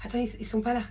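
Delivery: hushed whisper in the dark; whispering while hiding. Real, not acted. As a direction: whisper so nobody hears. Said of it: "Bon, je vous explique".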